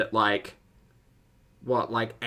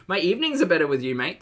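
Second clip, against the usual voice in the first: put-on British accent; 4 semitones higher, 3 dB louder, faster than usual. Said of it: "my British accent coming out".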